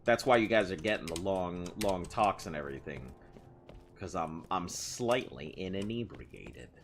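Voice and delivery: a bit tipsy, loose delivery. Real, not acted. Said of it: "sounding like I'm slightly tipsy".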